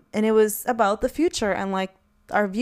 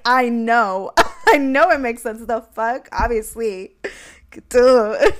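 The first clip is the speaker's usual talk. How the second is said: sassy laughing retort; 2 semitones higher, 5 dB louder, slower than usual. Retold or imitated. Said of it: "And I was like".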